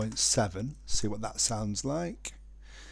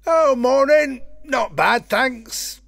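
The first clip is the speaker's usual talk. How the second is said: sped-up chipmunk voice, much higher and louder; high pitch shifted; 13 semitones higher, 12 dB louder, slower than usual. Shown as a demonstration. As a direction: playback pitched way up by mistake. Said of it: "Because I was running when I turned the pitch down".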